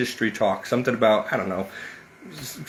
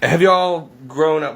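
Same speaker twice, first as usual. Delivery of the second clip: southern accent; 4 semitones higher, 4 dB louder, slower than usual. Real, not acted. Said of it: "Why am I talking in a southern accent?".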